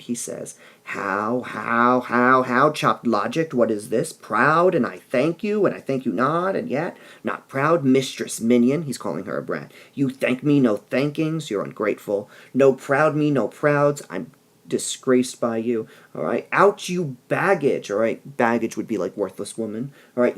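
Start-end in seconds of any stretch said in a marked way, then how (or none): 0.8-8.8 rising, louder bursts of a father's rage; furious father. Acted. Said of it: "Capulet loses his mind". 9.9-17.9 mild angry scolding, "Out, you baggage" slowed; angry father. Acted. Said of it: "Capulet loses his mind".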